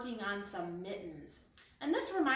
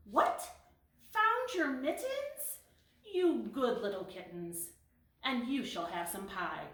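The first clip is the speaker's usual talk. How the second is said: surprised mother; 3 semitones higher than usual. Acted.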